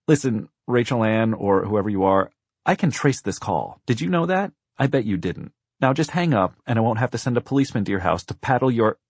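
put-on impatient adult lecturing a child; scolding operator. A narrator's reading. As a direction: warn off a prank caller. Operator scolds presumed prank caller.

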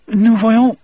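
high Cajun prisoner voice. Acted. Del speaks French.

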